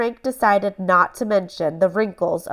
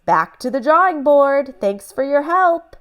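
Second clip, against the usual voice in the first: cheerful salesman; 6 semitones higher, 4 dB louder than usual. Acted. Mister Pickles voiced.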